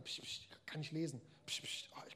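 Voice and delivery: put-on whispered shushing of a child; soft, impatient whisper at the kid; hushing whisper. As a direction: hiss psst, psst like a distracted parent.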